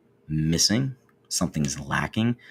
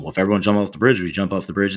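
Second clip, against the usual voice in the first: put-on parent's old line; 4 dB louder, much faster than usual. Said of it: "I think it's in the conversation".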